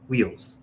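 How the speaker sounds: wheels drawn into "whee-uls"; Southern Indiana twang on wheels; two-syllable wheels. Shown as a demonstration. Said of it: "I made it very, like, two syllable".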